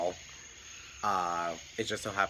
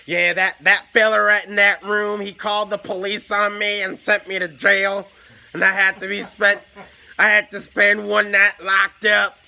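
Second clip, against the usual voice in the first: loud, higher southern drawl, slow; loud southern drawl, a bit higher; 10 semitones higher, 10 dB louder than usual. Retold or imitated. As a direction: imitate a rough southern drawl. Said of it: "southern drawl".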